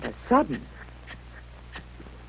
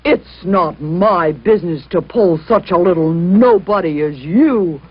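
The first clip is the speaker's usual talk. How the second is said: proud engine roaring; 2 semitones lower, 4 dB louder than usual. Acted. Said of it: "he roared".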